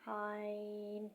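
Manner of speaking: عین drawn out slowly from the throat; throaty ain. Shown as a demonstration. Teacher showing the throat letter slowly. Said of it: "زور لگا کر عین کی آواز نکالیں".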